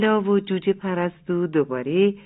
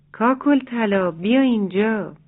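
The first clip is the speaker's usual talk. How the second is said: calling out; 3 semitones higher than usual. Acted. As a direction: call her over from the fence. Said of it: "از روی چپر صدا زد".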